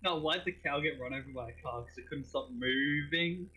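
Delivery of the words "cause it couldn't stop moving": "moving" stretched out slowly; drawn-out punchline. Acted. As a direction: deliver the pun slowly, leaning on "moving". Punchline of a cow pun joke.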